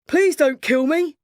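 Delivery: high, slow, frightened begging; pleading merchant. Acted. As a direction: beg for your life. Merchant begs for his life.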